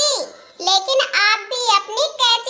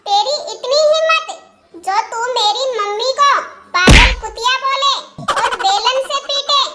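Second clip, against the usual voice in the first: angry shout; 2 semitones higher than usual. Acted. Son yells at his wife.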